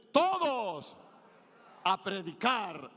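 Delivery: rally them like a commander; military harangue. Shown as a demonstration. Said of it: "como si fuera una arenga militar". (arenga militar gritada)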